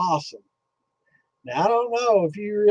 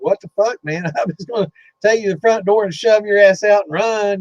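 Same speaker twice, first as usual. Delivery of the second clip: a higher, louder retold outburst that breaks into a laugh; laughing panic; 6 semitones higher, 5 dB louder than usual. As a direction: laugh through your own mock freak-out. Retelling his own panicked reply.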